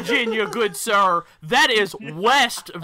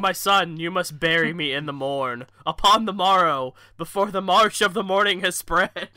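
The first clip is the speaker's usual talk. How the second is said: put-on slow, old-fashioned solemn lines; mock Elizabethan dad; slower than usual. Friend playing the dying dad, slow and mock-Elizabethan. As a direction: ham up the dying dad in olde English. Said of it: "He's, he's like".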